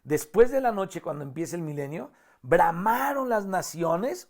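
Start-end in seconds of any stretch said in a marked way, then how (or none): 2.4-4.3 raised pitch, slow drawn-out proclamation; parte de contralto. Shown as a demonstration. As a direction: stretch out "bramaron" as a choir line. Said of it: "otra vez el contralto". (voz de contralto, elevada y alargada)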